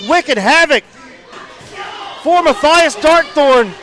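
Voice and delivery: shouted ringside wrestling call; live play-by-play. Real, not acted.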